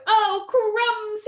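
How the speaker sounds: high, loud cry of dismay; alarmed snake. Acted. Snake seeing the Gruffalo, alarmed. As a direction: yelp in acted fright.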